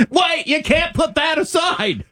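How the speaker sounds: high, drawn-out disbelief; exasperated, high-pitched objection; incredulous objection. Real, not acted. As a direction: protest it with the pitch jumping up. Objects to the argument he quoted.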